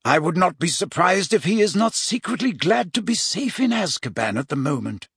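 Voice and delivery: lightly voiced wise mentor, pitched above the narration; lightly acted Dumbledore, musing; measured Dumbledore. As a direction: explain it thoughtfully, a hint of wry pity.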